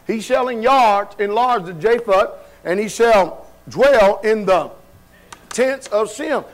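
slow, deliberate scripture reading; drawn-out verse recitation. A narrator's reading. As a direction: read the verse out in measured pieces.

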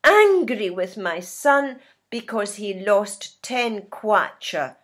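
mildly acted anger for learners; a touch of anger, leaning on the key word; angry. Teacher playing a parent cross with a son, mildly angry. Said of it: "This is how we feel when we're angry".

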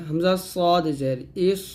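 slow spelling with a heavy "s" closing ইস; thick heavy articulation. Shown as a demonstration. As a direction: draw out সদ, thicken the end of ইস. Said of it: "মোটা করে". ("ইস" মোটা করে উচ্চারণ)

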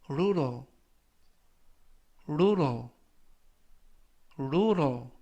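careful dictionary-style word, spaced for repetition; slow model reading. Shown as a demonstration. Teacher reading review words for learners to repeat, slow and careful. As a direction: say each word slowly and distinctly, leaving room to echo. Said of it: "천천히 세 번씩 읽어드리고요".

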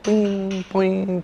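playful high-pitched boing of a hopping bush; bouncing sound effect. Retold or imitated. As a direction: bounce each "poing" like a toy spring. Bush hopping toward Moses.

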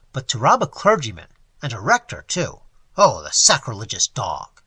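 indignant on the clergyman's behalf, voice dropping; mild indignation. Acted. Young man's outrage at robbery.

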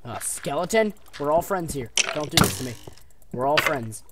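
loud mock pleading to a mob. Real, not acted. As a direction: beg the skeleton for mercy. Pleading with skeleton.

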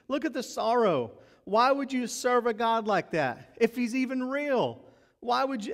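high, sneering mock disbelief; mocking scoffer. Scoffers mocking a believer, sneering and incredulous. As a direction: ridicule the believer to his face. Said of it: "they say".

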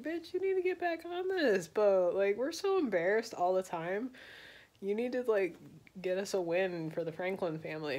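lightly voiced wife chewing out her husband; scolding wife. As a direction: nag him in a high put-on voice. Franklin's wife scolding him.

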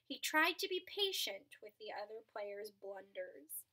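storybook narration for a class; read-aloud storyteller voice; reading to children. A narrator's reading. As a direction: tell the tale to the children. Reads a picture book aloud.

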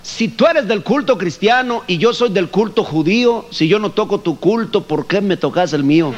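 singsong Yucatecan verse recital; Yucatecan bomba. Retold or imitated. Yucatecan reciting a bomba verse in a singsong Yucatecan accent. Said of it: "forma de hablar así como cantando".

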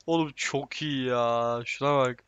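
slow awed whisper. Real, not acted. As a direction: breathe it out in wonder. Awed at the crash replay.

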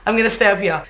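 put-on second go at a British accent; mock British read-aloud; British accent attempt. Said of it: "I'm trying to do a British accent".

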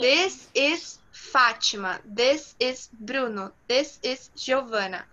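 slow, word-by-word "This is" before each name; slow model sentences. Shown as a demonstration. Teacher showing English without articles, slow and deliberate. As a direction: space out each word evenly. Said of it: "eu só falo".

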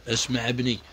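اسمع ابني dropped quietly, like a soft aside. Real, not acted. Same catchphrase, dropped softer.

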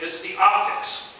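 slow emphatic repeat. Retold or imitated. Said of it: "I'll never forget".

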